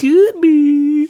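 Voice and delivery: tiny squeaky high voice; chipmunk voice. Pretend.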